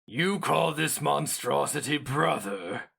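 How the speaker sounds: high, slow, cracked disbelief; pained incredulity. A narrator's reading. Hero mage confronting Sheo Narnra, pained and incredulous. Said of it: "his voice cracked with what seemed genuine dismay".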